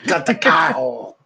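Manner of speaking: slow, lightly voiced Moe; a hint of Moe, slowed down; mock Moe line; imitating Moe. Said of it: "Mo says, like".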